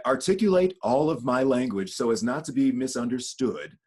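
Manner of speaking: carefully articulated police voice; over-careful, polite articulation. Shown as a demonstration. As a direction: enunciate every word so nothing is misunderstood. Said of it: "I'll use my police voice".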